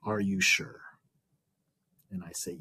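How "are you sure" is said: slow, deliberate retold challenge; measured, face-to-face questioning; leaning in, pointed. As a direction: imitate an instructor checking, right up close. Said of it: "leans in and says".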